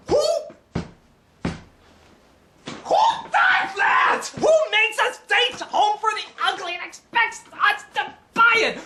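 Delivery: high, loud, stretched-out yell; outraged shout. Acted. Ranting at the filmmakers, high outraged shout. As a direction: bellow the question in outrage. Reviewer rants at the film.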